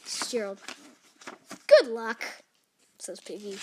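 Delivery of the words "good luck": loud, emphatic well-wishing; hearty send-off. Acted. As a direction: punch out a loud farewell wish. Piggy cheers Gerald on.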